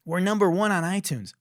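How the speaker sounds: mock their proud announcement; mock parading. Mocking artists parading a chart placing, boastful. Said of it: "they're going around parading".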